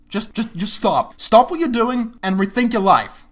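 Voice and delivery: exasperated MacGyver. Retold or imitated. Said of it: "MacGyver is looking at this show and just going".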